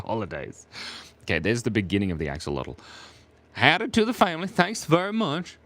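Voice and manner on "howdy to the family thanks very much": high, put-on Saskatchewan accent; playful high-voiced Canadian accent. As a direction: do a hammed-up Canadian prairie accent, pitched up. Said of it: "that's my Canadian Saskatchewan accent".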